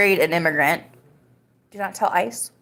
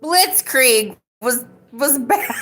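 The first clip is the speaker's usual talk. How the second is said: high, stretched mock-British; hammy British voice, starting to crack up; British accent; 6 semitones higher, much slower than usual. Shown as a demonstration. Streamer attempting British for a viewer, high hammy accent. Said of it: "do my best British accent".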